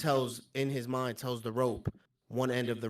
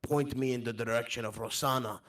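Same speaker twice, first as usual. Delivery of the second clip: put-on earnest wanderer with a foreign accent; accented traveller. Recalling loyal goblin friends, accented traveller. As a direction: speak fondly as a foreign traveller.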